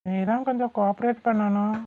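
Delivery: soft, intimate request; coy coaxing. Acted. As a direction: coax a partner quietly. Husband flirting, coaxing wife closer.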